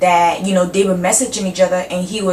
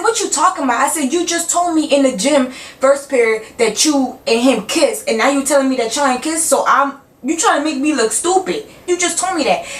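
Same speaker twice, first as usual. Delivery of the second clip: higher, heated comeback; heated indignation; 5 semitones higher than usual. Retold or imitated. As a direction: fire back at the liar, voice up high. Yelling back at lying girl.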